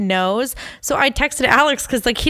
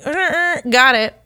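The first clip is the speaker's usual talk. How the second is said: mock casual dude; 4 semitones higher, slower than usual. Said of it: "just like".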